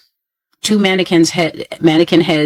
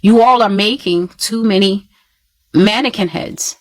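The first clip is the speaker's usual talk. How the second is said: retold frustrated plea, pitched higher; frustrated raised voice; 4 semitones higher than usual. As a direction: mildly raise your voice, as if cautioning people. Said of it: "raising my voice in frustration".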